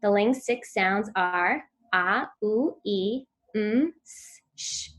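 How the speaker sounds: each sound "ah", "ooh", "ee", "mm", "s", "sh" said slowly and held apart; Ling six sounds. Shown as a demonstration. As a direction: sound out "ah, ooh, ee, mm, s, sh" one by one, clearly. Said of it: "a simple activity to ensure your child's hearing device is working".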